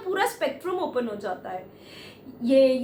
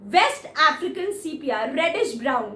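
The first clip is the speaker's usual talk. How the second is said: lightly matter-of-fact, copying her detached tone; a hint of businesslike calm; matching clinical tone; slower than usual. Speaker answers the woman in her same clinical tone. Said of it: "उसी tone में बोलता है".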